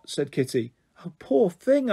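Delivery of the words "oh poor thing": exclaiming. A narrator's reading. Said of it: "I exclaimed".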